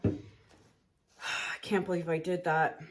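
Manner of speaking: soft, slow sigh through "I can't believe I did that"; quietly deflated, real regret; sighing disbelief. Real, not acted. Painter regrets her wrong move, softly sighing. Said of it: "I'm so angry at myself".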